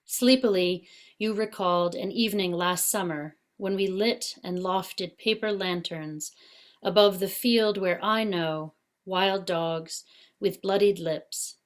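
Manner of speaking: measured poetry recital with deliberate pauses; poem reading. Acted. Poet reads Caught to online listeners, measured poetry reading. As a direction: read the poem line by line, pausing between phrases.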